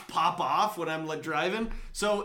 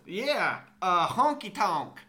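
put-on country accent; 2 semitones higher, slower than usual. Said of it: "them country accents".

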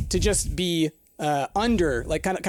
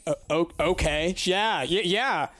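confused stammer; 2 semitones higher, slower than usual. Retold or imitated. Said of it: "both she's confused and fighting against it".

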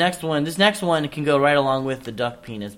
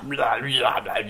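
slow, talking through a mouthful; words around a bite of lettuce; mouth full; 2 semitones lower than usual. Real, not acted. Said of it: "I'm eating it right now".

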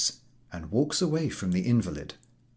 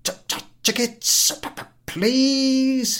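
higher and louder, stuttered call; stammering shout; 8 dB louder than usual. Acted. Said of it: "he keeps shouting".

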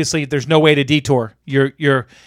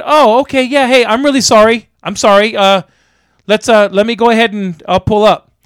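raised, hurried-to-please apology; placating apology; 4 semitones higher, 4 dB louder than usual. Retold or imitated. Apologizing to the honking driver behind him, mock placating. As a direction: retell yourself backing down apologetically.

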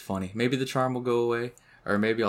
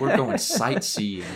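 laughing, slow; 6 dB louder, slower than usual. Retold or imitated. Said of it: "and I'm like".

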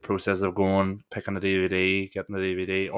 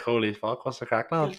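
imagined greeting to McGregor; 3 semitones higher than usual. Pretend. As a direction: gush at meeting a star. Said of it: "So I was like".

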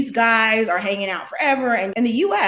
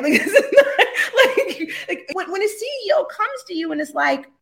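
real laughter breaking up the words, higher and louder; laughing; 9 semitones higher, 4 dB louder than usual. Real, not acted. Telling the interviewer about the CEO's request, laughing. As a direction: laugh in disbelief, pitched up.

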